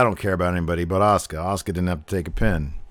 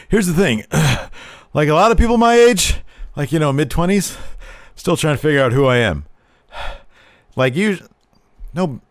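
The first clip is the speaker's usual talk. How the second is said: mock Liv; 6 semitones higher than usual. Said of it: "she's like".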